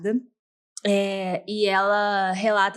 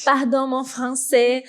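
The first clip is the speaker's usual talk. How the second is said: put-on playful French accent; 2 semitones higher, 3 dB louder, slower than usual. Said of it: "perdoa meu francês".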